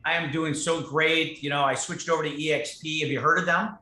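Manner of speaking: pushy recruiter. Shown as a demonstration. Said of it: "what everybody does".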